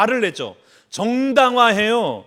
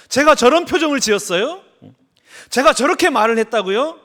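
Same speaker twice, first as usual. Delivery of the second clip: retold surprise; 3 semitones higher, 4 dB louder than usual. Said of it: "깜짝 놀란 거예요".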